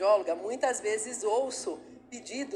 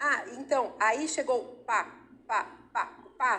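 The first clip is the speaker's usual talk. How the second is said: put-on toddler-like stuttering, much slower. A speaker explaining normal childhood disfluency demonstrates a two-year-old: toddler-like stuttering. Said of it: "está gaguejando".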